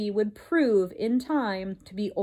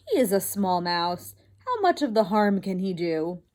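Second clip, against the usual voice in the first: dismissive lower wife; 3 semitones lower than usual. Acted. Wife shrugs off worry.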